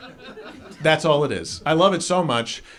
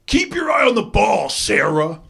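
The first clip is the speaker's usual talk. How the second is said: high yelled coaching from the stands; sports dad yelling; 5 semitones higher than usual. Retold or imitated. Dad in the bleachers shouting at his daughter, high yell. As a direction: bellow it across the bleachers. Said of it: "yells at the top of his lungs".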